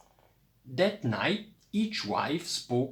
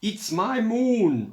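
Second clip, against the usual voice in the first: a high, loud storytelling roar; 10 semitones higher, 7 dB louder than usual. A narrator's reading. Ziki raging over the shrinking moon, loud roar. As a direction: bellow the claim high and louder. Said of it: "roared Ziki".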